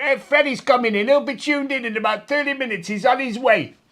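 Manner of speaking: high-pitched radio DJ announcer voice. Retelling a visit to a radio station, imitating the DJ Wolfman Jack. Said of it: "he used to talk like that".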